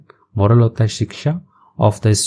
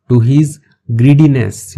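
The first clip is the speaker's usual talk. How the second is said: slow teacher read; 2 semitones higher, 4 dB louder, much slower than usual. Shown as a demonstration. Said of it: "teacher reads slowly".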